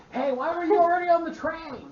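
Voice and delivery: high, loud goblin yell; goblin shout. Acted. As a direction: bark it out like an angry goblin. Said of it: "One more time".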